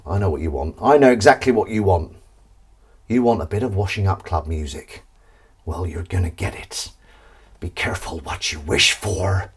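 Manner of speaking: low, soft attempt at an American accent. Shown as a demonstration. Host teasing viewers about club music, in a mock American accent. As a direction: put on an American accent, kept low and quiet. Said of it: "See, that's my American accent".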